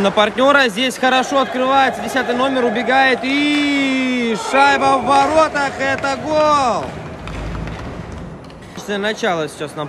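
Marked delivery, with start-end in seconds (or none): 3.2-6.8 excited hockey goal call. Real, not acted.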